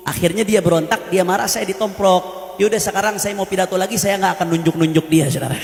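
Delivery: low, quiet smug retort of the official; arrogant reply. Retold or imitated. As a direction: brush off the blame with lightly voiced arrogance. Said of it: "Dengan sombong dia jawab apa?". (pejabat Mongol menjawab dengan sombong, suara rendah dan pelan)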